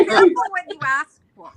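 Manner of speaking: high, loud, quick through laughter; laughing. Real, not acted. Ghost hunter joking about her own dare, laughing loudly. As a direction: laugh hard while giving a wry warning.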